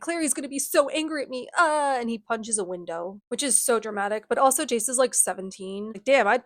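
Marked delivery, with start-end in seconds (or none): 0.0-2.0 higher-pitched fretting, lightly acted; mock panic. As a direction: fret in a put-on panic, ending in a groan. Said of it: "Jace is panicking".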